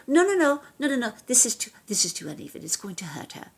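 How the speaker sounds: put-on a light British accent, fussing that the chair is uneven. Actor recalls Alfred Molina fussing over the chair, lightly imitated British accent. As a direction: protective co-star in a mild British accent. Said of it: "beautiful British accent".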